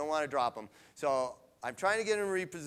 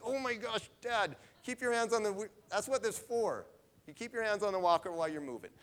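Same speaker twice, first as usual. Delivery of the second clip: much higher, quick, mock-alarmed telling-off; exasperated scolding; 8 semitones higher than usual. Daughter telling dad to keep his hands on the walker, high and fast. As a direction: scold him like a worried daughter.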